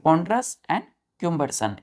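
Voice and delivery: ponderous and cumbersome said very slowly; slow model words. Shown as a demonstration. Teacher reciting synonyms to pupils, slow and clear. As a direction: spell the sounds out slowly for the class. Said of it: "इसके synonyms क्या होंगे".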